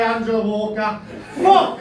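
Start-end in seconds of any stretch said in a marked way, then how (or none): 1.4-1.8 loud, high one-word yell; sudden punchy shout; call-and-response shout. Real, not acted. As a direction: shout the cue for the crowd to answer. Leads crowd in call and response.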